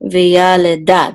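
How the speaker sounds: "Veyaleda" spoken slowly, weight on YA; secondary accent. Shown as a demonstration. Teacher pointing out syllables, "Veyaleda" with YA stressed. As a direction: say "Veyaleda" unsung, stretching YA. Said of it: "wants you to accent this syllable".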